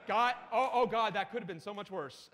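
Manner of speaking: relieved exclamation at normal pitch. Real, not acted. Speaker after a scare on screen, relieved. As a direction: let out relief at a narrow escape.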